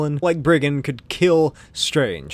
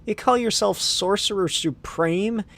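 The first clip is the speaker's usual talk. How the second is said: incredulous; 6 semitones higher than usual. Acted. Linda incredulous.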